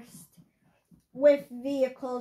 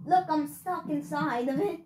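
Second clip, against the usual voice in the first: voice crack. Real, not acted. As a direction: voice cracking mid-sentence. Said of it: "I just had a voice crack".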